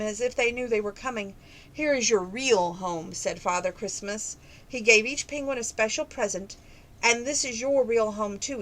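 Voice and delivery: gentle read-aloud storytelling voice; story narration. A narrator's reading. Reader telling a penguin Christmas story to listeners, storybook narration. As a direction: read it like a bedtime picture book. Reads a children's picture book.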